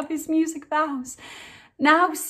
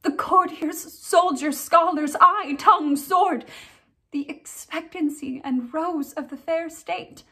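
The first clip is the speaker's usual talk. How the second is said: tragic heroine sorrow; 2 semitones higher than usual. Acted. Ophelia's grief speech, performed.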